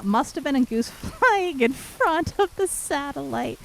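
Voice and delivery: slow, laughing through the quote. Retold or imitated. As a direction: giggle while quoting the joke. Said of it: "Quote, uh".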